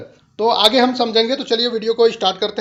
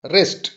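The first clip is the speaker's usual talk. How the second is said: "रेस्ट" unaccented, pitched lower; unstressed syllable; 5 semitones lower than usual. Shown as a demonstration. Teacher showing the unstressed half of forest, "रेस्ट" low. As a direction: drop "रेस्ट" down without stress. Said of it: "unstressed".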